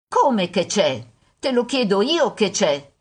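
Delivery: mildly indignant echo of his question; annoyed. Acted. Mother retorting to son's question, annoyed. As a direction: throw it back at him, irritated.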